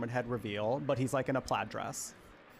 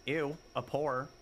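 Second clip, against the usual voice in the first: snooty disgust; 4 dB quieter, slower than usual. Retold or imitated. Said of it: "this person being like".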